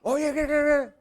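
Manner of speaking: high-pitched "qué-qué-qué" scolding babble; mock yelling. Preacher playing someone yelling at a husband, mock scolding. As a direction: imitate a spouse going off at you.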